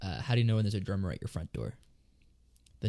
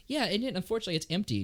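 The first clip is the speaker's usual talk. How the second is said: mock sad hint; 9 semitones higher than usual. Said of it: "just kinda do like that".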